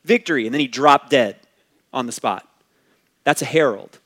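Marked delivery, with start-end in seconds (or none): 0.0-0.5 high, loud herald's cry; mock triumphant yell, pitched up; retold shout. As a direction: burst out with it, imitating a messenger's victory shout.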